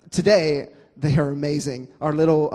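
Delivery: normal talking voice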